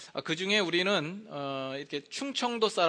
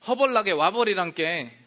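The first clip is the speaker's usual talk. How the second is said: louder Jeolla dialect call; 4 semitones higher, 8 dB louder than usual. Shown as a demonstration. Pastor demonstrating Jeolla dialect, loud Jeolla call. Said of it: "전라도는".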